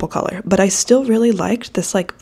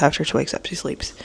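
whisper; 3 semitones lower, 7 dB quieter than usual. Acted. Joke about the sleepy dog.

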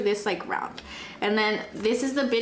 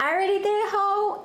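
higher, sassy retort; sassy comeback; 9 semitones higher than usual. Retold or imitated. Answering the girl she punched, with sassy higher attitude. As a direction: toss it off with attitude. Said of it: "And I'm like".

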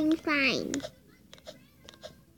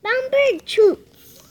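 high, loud, drawn-out cheer; excited shouting; 7 semitones higher, 10 dB louder, much slower than usual. Real, not acted. Excited child calling out character's name.

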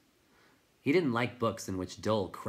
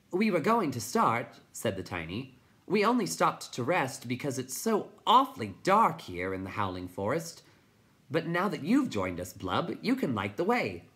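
high, louder little-creature voice; tiny high voice; 6 semitones higher, 4 dB louder than usual. A narrator's reading. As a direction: talk like a tiny rider.

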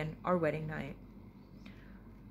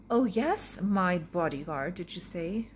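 dry; slower than usual. Acted. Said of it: "she commented dryly".

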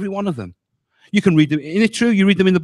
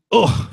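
groan; 3 semitones higher than usual. Shown as a demonstration. Groans at a hard verse.

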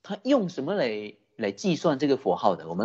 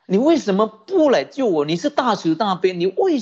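louder, higher mock cry of pain; anguished cry for help; 7 semitones higher, 4 dB louder than usual. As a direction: cry out to the bodhisattva in a hammed-up despair. Retold plea, said again louder. (提高音量的哀号式质问)

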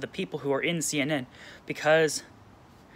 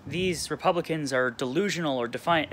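mocking exclamation. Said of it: "they all come out and say".

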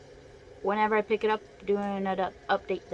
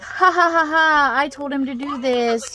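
taunting, higher cackling laugh; mocking laugh; 4 semitones higher, 5 dB louder than usual. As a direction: gloat with a mean laugh. Retold gloating friend Marcy.

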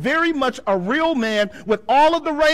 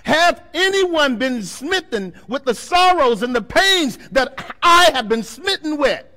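voice of the Lord; 5 semitones higher, 6 dB louder than usual. Retold or imitated. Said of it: "Jeremiah who said it".

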